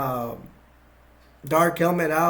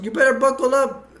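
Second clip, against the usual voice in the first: mock urgent warning; 8 semitones higher, 7 dB louder than usual. Colonel warns Dark Helmet.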